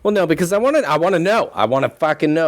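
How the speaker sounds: eager, rising; insisting he wants to know; excited insistence. Real, not acted.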